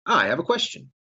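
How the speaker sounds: put-on high, sing-song kids' TV host; sarcastic kids' show voice. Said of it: "my dinosaur training impression".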